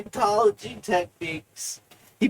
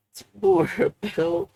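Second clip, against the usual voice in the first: laughing; 9 semitones higher than usual. Real, not acted. Laughs mid restart.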